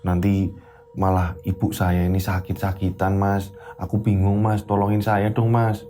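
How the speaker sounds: timid wife. Acted. Wife phoning her husband about money, timid. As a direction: ask him nervously.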